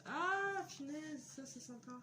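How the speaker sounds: high, drawn-out gasp of delight; pleasant surprise. Real, not acted. Discovers an unexpected extra gift.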